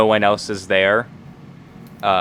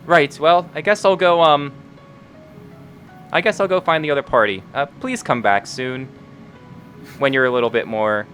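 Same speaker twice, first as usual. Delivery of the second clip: higher, quicker little robot man; little metal man voice; 5 semitones higher than usual. Acted. GM voicing the character, higher pitched.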